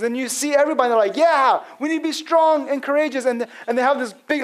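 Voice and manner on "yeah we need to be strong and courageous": higher-pitched mock rallying cry; hoorah crowd. People cheering on Joshua's call, imitated hoorah. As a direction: imitate a crowd getting hyped up. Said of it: "like, hoorah party".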